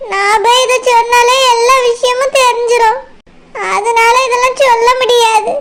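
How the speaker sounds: acted anxious weepy pleading; tearful. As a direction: beg them tearfully to keep the secret. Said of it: "அழுது அழுது மூஞ்சியெல்லாம்".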